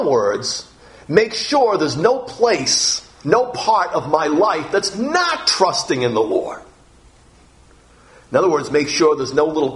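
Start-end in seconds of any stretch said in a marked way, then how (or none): 1.1-6.6 slow, fervent urging. Real, not acted. Preacher urging full trust.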